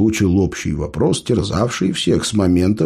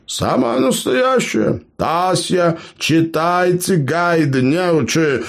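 high, slow, mocking the ignorant; ironic reply; 10 semitones higher, slower than usual. Gnome mocks clueless clanmates, ironic and high. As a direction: scoff at their ignorance. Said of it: "иронично ответил центральный эльф".

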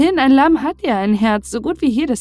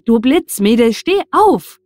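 angry shout; 3 semitones higher, 8 dB louder than usual. A narrator's reading. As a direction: shout the order, leaping up at the end. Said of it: "rief er". (wütend und laut rufen)

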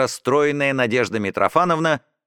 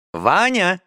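mild raised call, pitched up; mother calling her son; 5 semitones higher than usual. Acted. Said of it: "крикнула мама".

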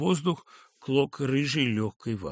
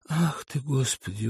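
1 dejected exclamation. Acted. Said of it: "уныло воскликнул".

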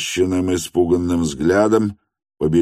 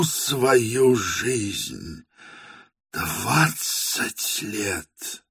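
tender confession; 4 semitones higher, 6 dB quieter, much slower than usual. Acted. Dying man's lifelong love confession.

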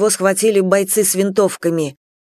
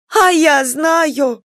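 defiant shout; 7 semitones higher, much slower than usual. Acted. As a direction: fling it back defiantly. Marfa retorts defiantly.

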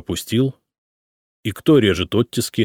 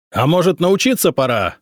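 loud, high sarcastic bark; 9 semitones higher, 3 dB louder than usual. A narrator's reading. Emperor barks sarcasm at the boyar, angry. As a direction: snap it like a jab. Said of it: "рявкнул Самослав".

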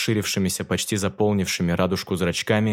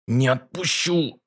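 squeezed out; 4 semitones higher, slower than usual. Acted. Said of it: "выдавил Франц, точнее пробулькал".

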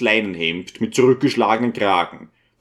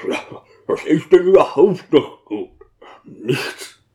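bitter retort; 5 semitones higher than usual. Acted. Bitter deacon answers the priest.

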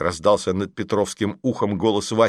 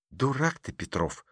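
quiet scolding; 4 semitones higher, 8 dB quieter than usual. Acted. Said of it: "сказала ничего не понимающая Маша".

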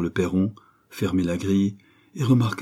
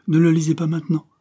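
higher, urgent plea; pleading; 9 semitones higher, 5 dB louder, faster than usual. A narrator's reading. Young writer to his guest, pleading. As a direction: plead with them to hold off. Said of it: "pria Martin".

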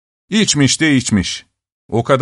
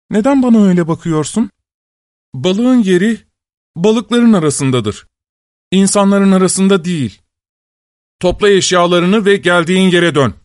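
harsh dismissal; 6 semitones higher, 3 dB louder than usual. Acted. Husband drives fish wife away.

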